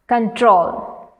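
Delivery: "control" with the weight on TROL; stress on second syllable. Shown as a demonstration. Teacher reading words to students, "control" stressed on TROL. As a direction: say "control" as con-TROL, falling at the end. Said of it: "stress on the second syllable".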